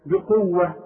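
بقوة stopped as "bi-quwwah", without a t; pausal h ending. Shown as a demonstration. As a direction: stop on بقوة with no t sound. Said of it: "تديك هي عند الوقت".

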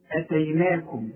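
أتيناكم with a short opening vowel; quick, unstretched first syllable in أتيناكم; short hamza. Shown as a demonstration. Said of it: "لو فوق الألف تقول إيه".

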